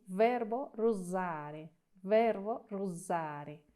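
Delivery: slow, careful, lean on the SS of russare; slow model pronunciation. Shown as a demonstration. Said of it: "enfatizamos la pronunciación en la doble S". (pronunciación lenta: russare con la doble S marcada)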